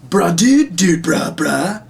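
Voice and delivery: high mock-dude chatter; bro-only alien language. Shown as a demonstration. Puppeteer imagining an alien who speaks only bro, high mocking voice. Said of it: "if that was his actual language".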